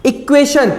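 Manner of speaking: इक्वेशन begins on a clear i sound; vowel start. Shown as a demonstration. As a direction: lift and stress the i of इक्वेशन. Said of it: "इसका sound ई आ रहा है".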